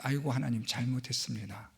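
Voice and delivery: bow down in your voice, sorry; humble apology. Shown as a demonstration. Showing the congregation how to repent, soft and humble. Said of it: "알아서 엎드리셔야 돼요".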